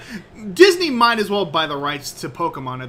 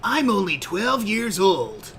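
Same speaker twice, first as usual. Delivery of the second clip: put-on anime boy voice; 3 semitones higher, slower than usual. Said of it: "anime protagonist voice".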